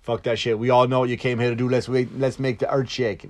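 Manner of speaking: lightly voiced rapper impression, hyped; a hint of a rapper egging the crowd on; mild hype-man rapper; rapper impression. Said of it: "I did a rapper impression".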